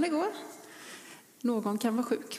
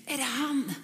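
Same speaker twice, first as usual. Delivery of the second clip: hushed hopeful thought; 3 semitones higher than usual. Acted.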